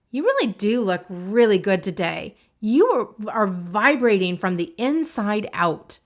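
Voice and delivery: punchy, heartfelt pep talk; emphatic self-encouragement, swelling on stressed words; emotional emphasis. Shown as a demonstration. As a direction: lift and push the key words. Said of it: "an emotional way".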